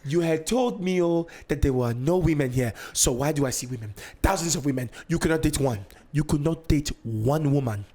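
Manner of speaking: mock Nigerian-accented scolding, building at the end; indignant mom impression in a Nigerian accent; mom going off. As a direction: imitate an accusing Nigerian mother. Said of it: "My mom just starts going off".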